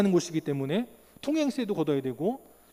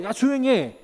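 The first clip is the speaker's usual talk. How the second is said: crowd's rebuke; 3 dB louder than usual. Retold or imitated. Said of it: "많은 사람들이 꾸짖어서".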